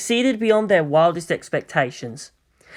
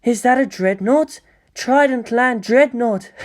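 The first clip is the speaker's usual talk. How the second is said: gleeful excitement; 6 semitones higher, slower than usual. Acted. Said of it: "jumping up and down in glee".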